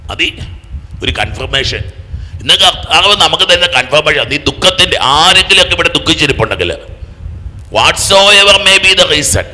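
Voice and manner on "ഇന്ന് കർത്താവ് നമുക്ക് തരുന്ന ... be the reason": loud, high, ringing proclamation; full-force preaching. Real, not acted. Preacher proclaiming a confirmation to the sorrowing, full-force preaching.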